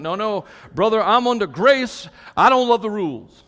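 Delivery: mock objector with a light Southern accent. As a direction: object like a churchgoer with a Southern twang. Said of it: "they always have a southern accent".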